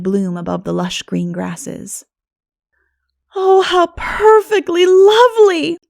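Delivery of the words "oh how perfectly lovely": high, loud, slow gasp of delight; delighted cry. A narrator's reading. Girls discovering the garden, crying out in high, loud, slow delight. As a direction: marvel aloud at the hidden garden. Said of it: "three of the girls cried".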